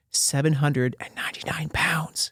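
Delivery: slow, hushed whisper. Retold or imitated. Mom telling her son his weight, imitated whisper. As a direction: whisper the number, drawn out. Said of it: "She whispered it".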